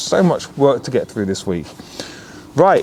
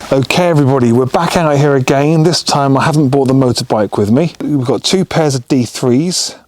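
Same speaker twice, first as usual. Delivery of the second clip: loud outdoor voice; 3 semitones higher, 6 dB louder than usual. Real, not acted. Outdoor night video intro.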